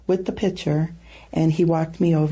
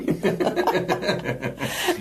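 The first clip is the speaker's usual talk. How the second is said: soft laugh; 4 dB quieter than usual. Real, not acted. Laughing about husband's guess.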